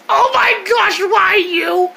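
high squealing shock; shocked cry. Acted. Rabbit stabbed him, squealing in high shock. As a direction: shriek it out in sudden pain. Character hurt by stab.

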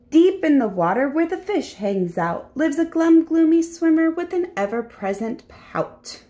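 lively, sing-song picture book narration; story reading to children. A narrator's reading. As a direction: read it aloud to small children.

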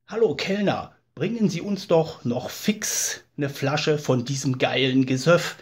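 boozy shout across the bar for another bottle; drunken call to the waiter. Acted. Drunk guest calling the waiter.

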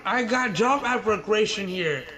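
lightly put-on Chinese accent, broken English; mock Chinese accent. Prankster asks dev for job in mock Chinese accent. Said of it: "why you sound like that?".

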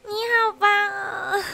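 slow praise breaking into a teary laugh; half laugh, half cry; real tearful laughter; laughing through tears. Real, not acted.

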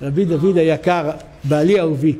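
a hint of a wife coaxing her husband; lightly voiced tender wife. Wife questions her beloved husband, lightly tender.

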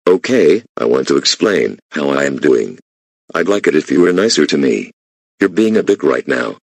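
loud frustrated pleading; angry employee. Acted. Employee telling off the boss, loud frustrated pleading.

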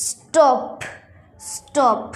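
"স্টপ" with a plain t after s, no puff; careful model "স্টপ", dry t; unaspirated t. Shown as a demonstration. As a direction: say "স্টপ" with ট, not ঠ. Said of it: "টি এর উচ্চারণ মানে ট হইছে".

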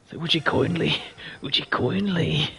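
put-on Irish accent. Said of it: "terrible Irish accent".

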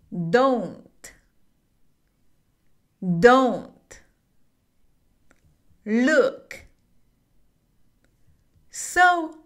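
slow, one word at a time with long pauses; teacher drilling each word slowly. Shown as a demonstration. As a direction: space out "What's wrong? You don't look so good." word by word. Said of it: "Repite después de mí".

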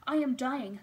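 loud, high mock death cry; dying scream. A narrator's reading. Describing the scream that scared him, dying scream.

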